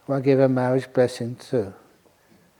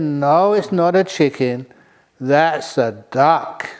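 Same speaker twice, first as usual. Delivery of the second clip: insisting husband; slower than usual. Acted.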